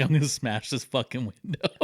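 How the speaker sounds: laughing through the words. Retold or imitated. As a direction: say it while chuckling. Retold while laughing.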